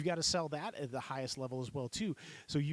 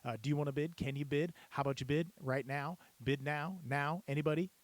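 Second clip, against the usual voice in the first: auctioneer filler phrases. Shown as a demonstration. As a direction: rattle off filler calls to keep bidders going. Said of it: "Filler phrases".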